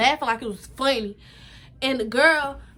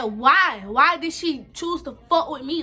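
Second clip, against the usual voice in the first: upset outcry; 3 semitones higher, 5 dB louder, slower than usual. Retold or imitated. Crying, questioning why she was targeted.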